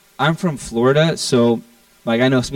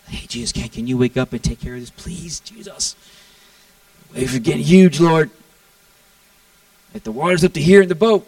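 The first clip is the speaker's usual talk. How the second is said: panicked disciple; 3 semitones higher than usual. Retold or imitated. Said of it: "I would probably be one of them".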